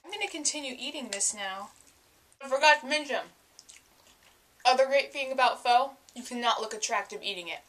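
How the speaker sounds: talking while chewing; words round a bite of food; mouth full. Real, not acted. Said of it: "I'm talking with my mouth full".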